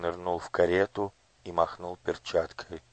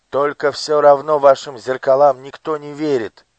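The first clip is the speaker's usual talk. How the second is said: put-on loud, higher fiery boy; shouted defiance; 6 semitones higher, 11 dB louder than usual. A narrator's reading. Gurt shouts defiance into Nushrok's face. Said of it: "выкрикивал Гурт в лицо Нушроку".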